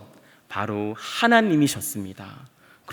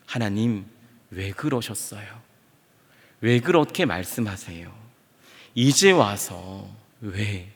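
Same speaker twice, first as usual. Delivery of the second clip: hurt pleading; 4 semitones lower, 3 dB quieter than usual. Acted. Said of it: "하나님께 질문하지 않았을까요?".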